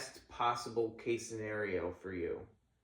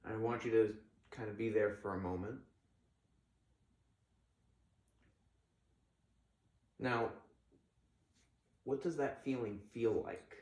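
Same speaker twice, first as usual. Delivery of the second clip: gently walk them through the feeling; calm crisis counselor. Acted. Leads a visualization.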